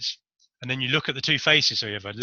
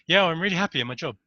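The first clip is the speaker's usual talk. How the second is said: fake cheerful yes; 5 semitones higher, faster than usual. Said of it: "they'll be going".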